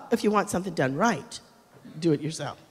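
mock know-it-all voice. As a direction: drop low and gravelly-free, sneer the last words.

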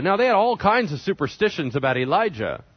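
ordinary talk, nothing marked

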